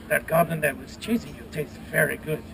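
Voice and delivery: mild mock French-Spanish accent. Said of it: "it's a Fren-, French, Spanish thing going on".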